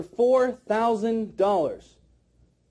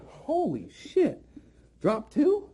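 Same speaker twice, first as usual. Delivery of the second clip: astonished customer; 7 semitones higher, slower than usual. Retold or imitated. Trainer voicing a customer's thoughts at the second drop, mock astonished. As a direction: imitate a stunned buyer, pitch climbing. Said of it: "And they're thinking".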